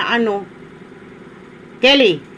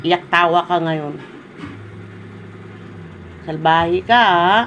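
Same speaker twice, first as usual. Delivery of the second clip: low, slow parental reproach; quietly menacing telling-off, pitched down; stern scolding; 6 semitones lower, 3 dB quieter, slower than usual. Real, not acted. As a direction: scold in a lowered, controlled voice. Scolding Kelly as naughty, warning.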